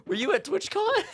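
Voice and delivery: high-pitched question through laughter; laughing. Real, not acted. Streamer asking Duvid about TwitchCon, laughing. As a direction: crack up while asking, voice way up high. Repeats question while cracking up.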